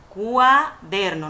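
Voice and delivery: Cuaderno stretched slowly, each vowel apart; slow syllabic cuaderno. Shown as a demonstration. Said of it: "no digo cuaderno, sino cuaderno".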